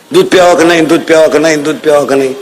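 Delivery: low, repetitive mock nagging; low singsong badgering imitation; imitated nagging. Imitates wife nagging over milk.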